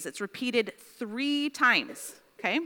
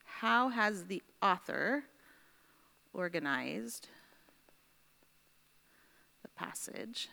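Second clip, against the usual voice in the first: slow dictation; 4 dB quieter than usual. Real, not acted. Writing out question while saying it.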